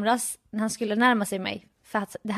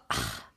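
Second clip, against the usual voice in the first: soft, weary exhale, imitating boyfriend; tired sigh; 12 dB quieter than usual. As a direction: sigh as if worn out. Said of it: "så här, så trött".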